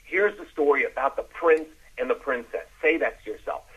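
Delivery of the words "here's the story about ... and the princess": lively storyteller's opening; enthusiastic. Shown as a demonstration. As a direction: open the tale with some enthusiasm. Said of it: "have some enthusiasm".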